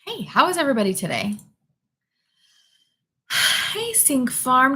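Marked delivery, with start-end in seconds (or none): 3.7-4.8 bright high greeting. Real, not acted. Streamer greeting a viewer by name, high and excited.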